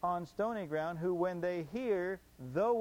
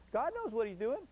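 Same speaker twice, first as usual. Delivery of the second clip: higher, mock pious lilt; sarcastic; 5 semitones higher than usual. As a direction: fake trust, singsong. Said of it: "I'm being sarcastic".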